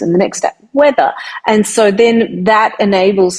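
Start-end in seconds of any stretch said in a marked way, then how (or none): 0.7-1.1 a bright, lifted read of the single app name; assistant voice demo. Shown as a demonstration. Voice artist showing how her phone voice reads apps. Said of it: "it will say".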